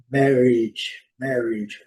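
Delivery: "marriage" as "MARR-idge", short i. Shown as a demonstration. Teacher modelling an everyday word, "marriage" ending in short "idge". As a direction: model "marriage" carefully, first syllable strong. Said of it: "O A com som de I".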